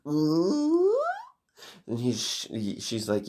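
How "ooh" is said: high, rising mock-creepy ooh; creepy villain coo. Smiling man shows off his grin, creepy high coo. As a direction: let an eerie coo slide upward.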